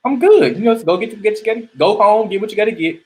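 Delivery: lightly voiced wife saying no thanks; emphatic wife. Man voicing his wife brushing off the offer, mock sweet. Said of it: "the woman emphatically says".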